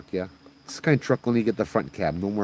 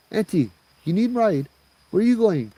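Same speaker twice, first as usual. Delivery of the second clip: high, louder questions; polite offer; 12 semitones higher, 4 dB louder than usual. Acted. Driver offering old auntie a ride, high and polite. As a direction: ask politely in a raised voice.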